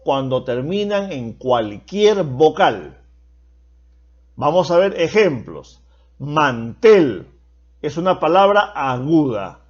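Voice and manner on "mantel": "Mantel" said with the weight on its last syllable, -tel; teacher's example, landing firmly on the end of "Mantel"; final-syllable stress. Shown as a demonstration. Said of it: "llevan la mayor fuerza de voz en la última sílaba".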